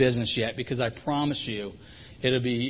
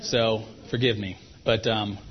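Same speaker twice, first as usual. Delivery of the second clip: chewing gum; 2 semitones lower, 4 dB quieter than usual. Real, not acted. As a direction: still chewing gum while talking. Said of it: "I'm gonna chew it anyways".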